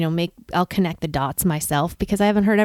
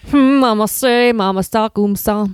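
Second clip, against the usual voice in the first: skipping record. Retold or imitated. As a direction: drag and repeat like a needle stuck. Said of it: "I have to hit it with the, with my elbow".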